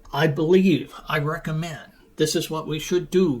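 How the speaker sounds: firm, emphatic statements; assertive. Shown as a demonstration. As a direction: state it with confidence, punching the first words. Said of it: "use more assertive statements".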